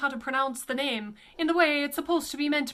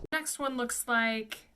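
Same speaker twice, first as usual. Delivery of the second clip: ordinary delivery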